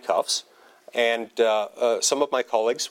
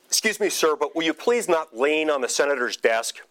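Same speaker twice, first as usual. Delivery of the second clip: brusque; 4 semitones higher than usual. Retold or imitated. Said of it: "fairly brush, uh, uh, brusque tone of voice".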